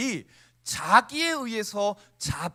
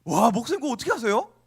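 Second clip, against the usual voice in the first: mock amazement; 5 dB louder, faster than usual. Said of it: "이렇게 얘기할 수 있겠어요?".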